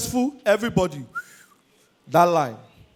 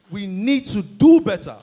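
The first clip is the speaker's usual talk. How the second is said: slow repeat. Real, not acted.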